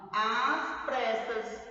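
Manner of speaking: "às pressas" very slow, with a held "às"; prolonged "às". Shown as a demonstration. Teacher explaining the grave accent, "às pressas" stretched out. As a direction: draw out the vowel in "às pressas". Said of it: "nós pronunciamos prolongando".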